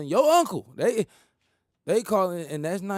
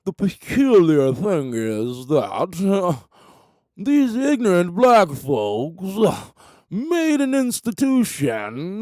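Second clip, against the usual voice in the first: slow and louder, drawn out; rich white man voice; 5 dB louder, slower than usual. Retold or imitated. Rich man mocking black folks' rap, slow smug voice. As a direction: savour each word like a sly rich man.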